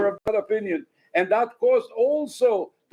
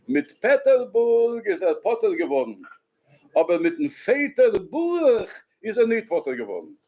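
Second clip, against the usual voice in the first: put-on Yiddish in a Ukrainian accent. Teacher quoting the Breslover's pun to listeners, Ukrainian Yiddish accent. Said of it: "they spoke in a Ukrainian accent".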